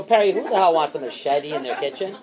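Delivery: scolding with a laugh; half-laughing mock scold; laughing retort. Boss retelling scolding Perry, laughing. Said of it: "I go".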